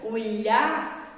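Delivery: slow "ilhá" with the tongue pulled back; teacher demonstrating lh; lh sound. Shown as a demonstration. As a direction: stretch "ilhá" so kids hear the lh. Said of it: "a minha língua tem que voltar pra trás".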